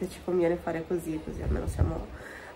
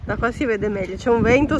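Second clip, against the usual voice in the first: wind on mic; 2 semitones higher, 5 dB louder than usual. Real, not acted. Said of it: "scusatemi il rumore".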